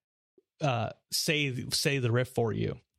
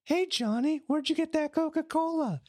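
high, put-on cartoon kid voice; squeaky mock kid asking a buddy; kid in the scene; 13 semitones higher than usual. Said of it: "then it'll repeat it again".

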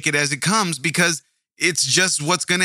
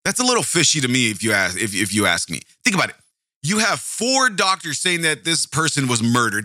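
ordinary delivery

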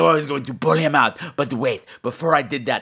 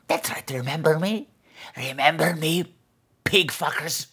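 softer sneering creature voice; menacing gargoyle taunt; 5 dB quieter than usual. Acted. Gargoyle taunts listeners, quieter.

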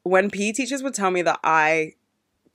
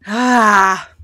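exasperated sigh; 3 semitones higher, 10 dB louder than usual. Real, not acted. Sighs after the rant.

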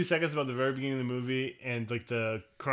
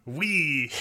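mock French accent; 5 dB louder than usual. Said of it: "terrible French accent".

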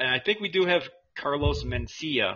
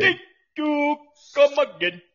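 mock shopkeeper goodbye; 9 dB louder than usual. Vendor farewell catchphrase.

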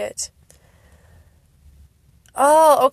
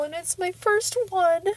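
choked up; 7 semitones higher, 4 dB quieter than usual. Real, not acted. Choking up over first comeback.

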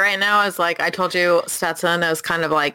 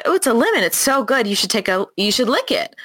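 coaxing; 3 semitones higher than usual. Retold or imitated. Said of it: "And I was like".

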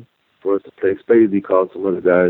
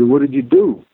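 alarmed question; 7 semitones higher than usual. Retold or imitated. Friend alarmed at warden summons.

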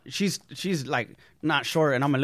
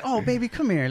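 higher-pitched, lightly voiced motherly reassurance; imitated comforting actress; 8 semitones higher than usual. Star reassures her nervous young co-star, imitated comforting tone.

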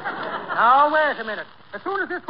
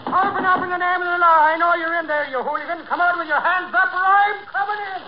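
muffled, as if through a blanket. Acted. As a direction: talk like your mouth is full of cloth. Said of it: "Spit out that mouthful of blanket you're talking through".

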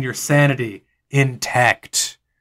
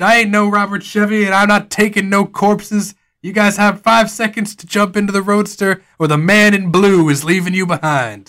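put-on old cowboy voice; 5 semitones higher than usual. GM voices man in blue.

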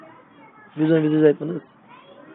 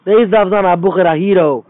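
loud rhetorical call; 6 dB louder than usual. Acted.

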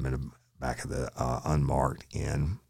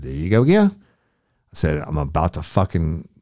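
much higher, louder furious rant; furious yelling; 8 semitones higher, 9 dB louder than usual. Retold or imitated. Officer blowing up at a lying suspect, furious yelling. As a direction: let him have it, fed up.

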